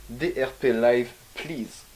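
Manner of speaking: slow, exaggerated English accent. Showing off his English accent for viewers. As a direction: spell it out slowly in a showy English accent. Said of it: "T'as vu mon accent anglais?".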